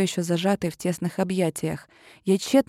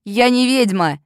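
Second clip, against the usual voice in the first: loud outcry; 3 semitones higher, 6 dB louder than usual. A narrator's reading. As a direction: shout it high and loud. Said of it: "выкрикнула я громко". (громкий выкрик)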